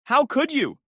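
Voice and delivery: high, loud furious cry; spat out. A narrator's reading. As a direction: spit the words out in rage. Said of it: "she spat at Brad".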